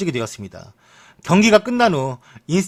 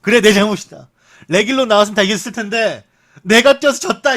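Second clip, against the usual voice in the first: sarcastic shout, higher and louder; mock angry retort; 6 semitones higher, 5 dB louder than usual. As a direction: fling the blame back in a huff. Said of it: "마르셀로가 직접, 음, 대답하길".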